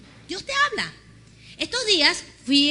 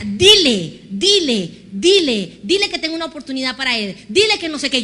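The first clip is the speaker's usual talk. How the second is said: insistent voice; 7 dB louder than usual. Retold or imitated. God insisting at the fruit shop.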